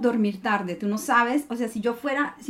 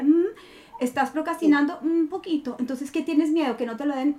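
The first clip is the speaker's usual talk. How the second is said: teasing inner self; 3 semitones higher than usual. Retold or imitated. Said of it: "salgo yo con carita de".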